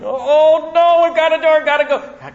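high, loud frightened yelp; panicking disciple. Retold or imitated. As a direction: blurt it out in a sudden fright. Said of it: "I can just see this whole thing happening".

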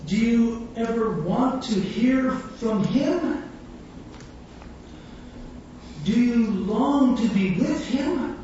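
slow, deliberate preaching questions; slow earnest questions. Real, not acted. Preacher asking the congregation slowly, earnest. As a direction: let each question land slowly.

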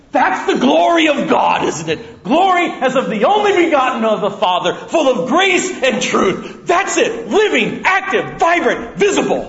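preacher exalting the glory of God; fervent preaching. Real, not acted. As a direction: proclaim each word with fire. Preaching at full force.

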